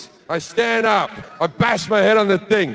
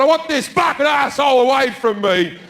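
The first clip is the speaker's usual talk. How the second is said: mock shout at the man; 4 semitones higher than usual. Comic yelling at the seatmate to get him moved. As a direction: yell it at the seatmate.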